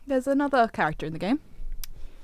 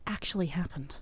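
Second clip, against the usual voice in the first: dramatic hushed reveal; spooky whisper; 3 semitones lower, 9 dB quieter than usual. Acted. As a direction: whisper the twist. Spooky urban legend telling.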